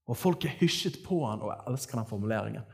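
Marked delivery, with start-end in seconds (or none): none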